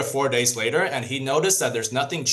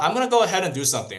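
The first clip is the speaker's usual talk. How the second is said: put-on eager kid; 6 semitones higher, much faster than usual. Boy decides to act.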